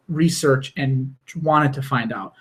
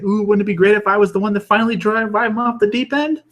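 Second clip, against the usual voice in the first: high and quick, giddy with glee; a gleeful villain savoring the thought; mock excited Joker; 7 semitones higher than usual. Joker thrilled that Batman might snap, giddy. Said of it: "He's like".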